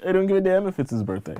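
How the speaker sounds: high, fast, fed-up comeback; exasperated retort. Real, not acted. Exasperated retort to mocked excuse.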